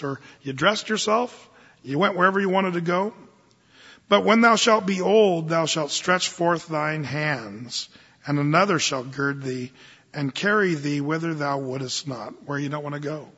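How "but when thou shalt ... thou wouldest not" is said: formal scripture reading. Acted.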